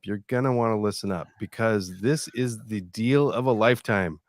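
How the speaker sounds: lightly voiced hipster ad read; a hint of a laid-back hipster. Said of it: "With a hipster style".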